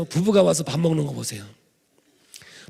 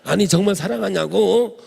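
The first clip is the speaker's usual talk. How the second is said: louder, pressing question; insistent wife; 4 semitones higher, 5 dB louder than usual. Retold or imitated. Wife asking husband a third time, louder and insistent. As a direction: push hard for an answer, louder.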